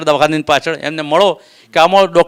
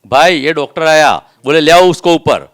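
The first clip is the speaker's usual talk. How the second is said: retold shout; 6 dB louder than usual. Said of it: "નીચેથી બૂમ પાડી".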